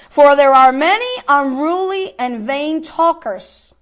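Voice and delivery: slow, weighty scripture reading, lines stretched; preacher reading Titus to the congregation. Acted. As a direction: read Paul's warning with gravity. Reading Paul's letter aloud.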